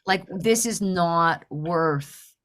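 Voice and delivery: slow, low, deliberate self-questioning; sobered realization. Retold or imitated. Driver realizing after ripping the wiper, sobered. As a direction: let it sink in word by word.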